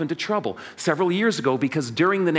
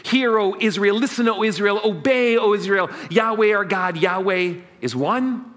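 solemn paraphrase; 3 semitones higher than usual. Shown as a demonstration. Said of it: "What's the meaning of this phrase".

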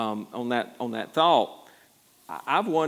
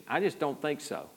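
ordinary talk, nothing marked

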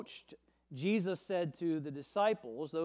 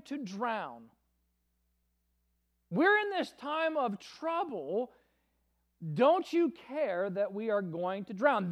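raised, higher pleading cry; shouting in fear; 4 semitones higher, 4 dB louder than usual. Acted. Frightened disciples shouting at sleeping Jesus in storm, raised voice. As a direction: cry out to the teacher over the storm. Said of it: "woke him up shouting".

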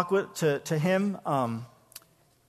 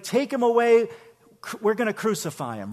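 angry command; 5 semitones higher, 3 dB louder than usual. Retold or imitated. High priest condemns Jesus.

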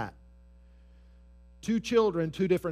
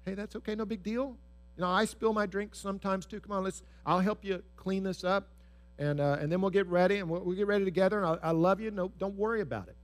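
gentle reassuring parent; 2 semitones higher, faster than usual. Acted. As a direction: comfort a child who spilled milk.

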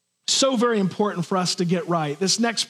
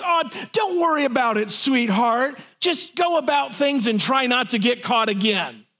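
all-grace Jesus; 3 semitones higher than usual. Retold or imitated. Pastor imitating an all-grace Jesus to the woman, mock sugary. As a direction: brush off her sin sweetly, mock-gentle. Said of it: "It would have sounded something like this".

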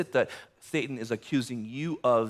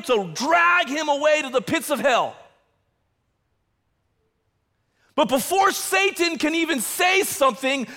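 higher, building sermon voice; fervent preaching; 12 semitones higher, 4 dB louder than usual. Acted. Pastor urging the congregation, fervent preaching. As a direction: preach it with rising urgency.

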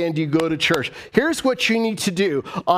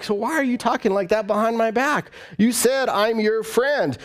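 acted-out hurt, pitched up on the questions; aggrieved confrontation; 3 semitones higher than usual. Preacher voices betrayed friend challenging backbiter, aggrieved confrontation. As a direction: pile up grievances at a false friend.

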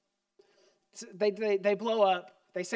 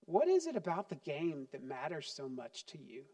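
put-on softer, lower calm question to the child; gentle parent; 4 semitones lower, 5 dB quieter than usual. Parent calling a child over after a blowup, gentle asking. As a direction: invite the child to talk, gently. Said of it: "Call them over and say".

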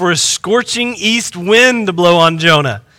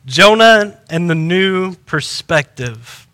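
slow, deliberate title announcement; announcing the title; 3 semitones lower, slower than usual. Shown as a demonstration. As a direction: lay out each word of the title slowly. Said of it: "The title of today's message is this".

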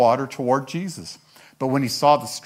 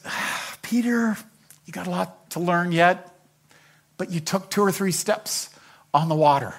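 gently proud, opening on a breathy sigh; slightly higher, fond encouragement with pauses; fond mentor's mild praise; proud of him; 4 semitones higher than usual. Acted. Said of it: "He's proud of him".

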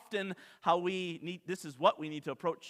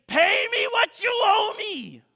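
shouted, much higher, slow demand; angry demand; 10 dB louder, slower than usual. Acted. Servant demanding his debt back, slow furious shout. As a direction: bellow it at the debtor. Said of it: "I can just imagine saying".

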